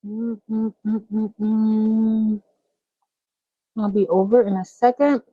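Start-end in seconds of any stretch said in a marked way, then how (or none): 0.1-2.4 talking while munching chips; crunching chips. Real, not acted. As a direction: mouth full of chips. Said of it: "Munching on some chips".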